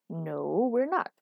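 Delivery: firm, pitch climbing at the end; definitive refusal. A narrator's reading. Girlfriend refuses to go shopping, definitive. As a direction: shut the idea down completely. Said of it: "she said definitively".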